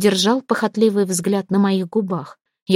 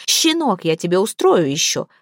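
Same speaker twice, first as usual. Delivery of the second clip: spitting threat. Acted. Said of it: "плевался кровью мистер Ричардсон".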